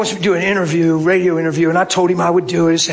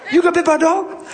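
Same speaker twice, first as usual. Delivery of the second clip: higher, laughing Southern man's question; Southern accent; 9 semitones higher than usual. Retold or imitated. Maintenance man repeating his question, high Southern accent. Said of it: "That's just how he talked".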